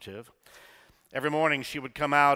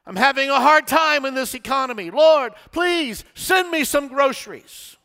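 loud pleading prayer; 13 semitones higher, 12 dB louder than usual. Retold or imitated. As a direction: cry out your need to heaven. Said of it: "she continued".

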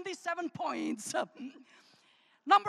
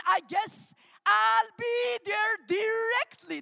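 showcased phrase; 3 semitones higher, 3 dB louder, slower than usual. Shown as a demonstration. Presenting Southern expression.

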